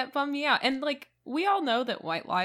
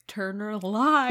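drawn-out, louder, breaking into laughter; mock-shocked outburst; 5 dB louder, slower than usual. Retelling her first reaction to co-host, laughing mock shock. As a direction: stretch it out in mock outrage, laughing.

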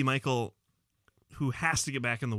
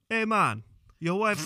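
light Irish brogue, raised pitch; a hint of a leprechaun; 5 semitones higher, slower than usual. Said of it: "did I sound like a leprechaun?".

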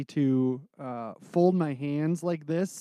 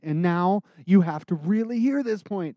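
louder; 4 semitones higher, 4 dB louder than usual. Shown as a demonstration. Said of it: "make sure that it varies".

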